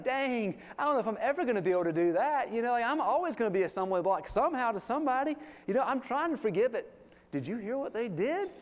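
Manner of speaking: high, fast fretting voice; anxious believer. Retold or imitated. Worried believer frets about forgiving, high and rushed.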